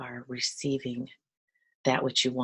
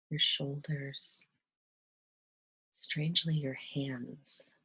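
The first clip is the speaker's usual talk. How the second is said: slower, gentle guiding voice with long pauses; guided meditation. Acted. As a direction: ease listeners into relaxing, unhurried.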